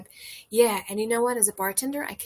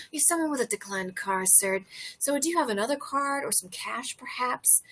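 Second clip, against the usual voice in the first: mock polite; 2 semitones higher than usual. Retelling polite burn.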